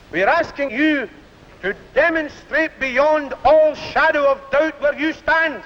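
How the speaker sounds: public address to a mass meeting; firm, measured platform oratory; rally speech. Acted. Union leader addressing mass meeting.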